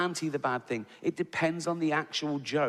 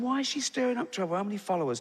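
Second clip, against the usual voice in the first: high, quick flustered questions; mock alarm; 7 semitones higher, faster than usual. Comic replaying his reaction to her tweets, flustered. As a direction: fret aloud, pitch shooting up.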